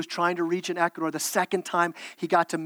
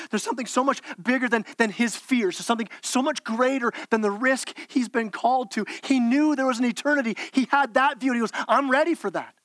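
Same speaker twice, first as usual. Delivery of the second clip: rising fervour; 4 semitones higher than usual. Real, not acted. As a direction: climb toward the eternity point. Preacher builds about eternity.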